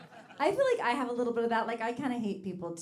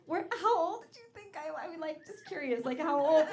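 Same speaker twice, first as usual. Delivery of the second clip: high eager mock curiosity; eager fishing; 8 semitones higher than usual. Comedian fishing the young guy for a compliment. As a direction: fish for the compliment, much higher.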